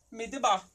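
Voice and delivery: midebar with an open A in the last syllable; A sound. Shown as a demonstration. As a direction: model midebar, landing on "bar" with an A. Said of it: "se pronuncia como A".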